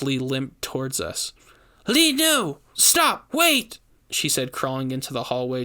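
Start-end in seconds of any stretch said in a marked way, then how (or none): 1.9-3.8 high loud desperate pleas; panicked witch. A narrator's reading. Witch begging brother to stop, high panicked shouts. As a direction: beg him to stop in panic.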